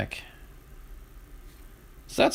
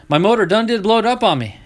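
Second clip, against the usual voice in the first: higher, louder hick drawl, "blowed" leaned on; thick Southern drawl; 8 semitones higher, 4 dB louder than usual. Retold or imitated. Dale Earnhardt Junior telling the interviewer, in thick Southern drawl. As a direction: play a Southern racer explaining the blown motor. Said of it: "Tell me that ain't Southern".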